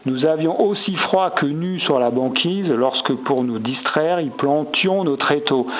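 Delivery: measured reading of a sonnet; lightly declaimed alexandrines; verse recitation. Acted. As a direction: recite the verse, lifting the opening line. Reads sonnet lines aloud.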